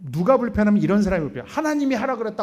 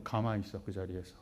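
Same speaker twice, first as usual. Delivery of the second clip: firm hushed order; 13 semitones lower, 14 dB quieter than usual. Retold or imitated. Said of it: "그럼 제가 뭐라 그럴까요?".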